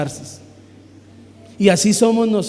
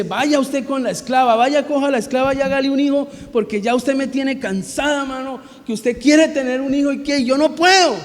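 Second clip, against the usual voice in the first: Sara voiced higher and exasperated, partly rushed; fed-up wife; 4 semitones higher than usual. Sara, fed up, telling Abraham to go - exasperated. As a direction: act out a tired wife nagging her husband. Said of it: "que cansada Sara le dice".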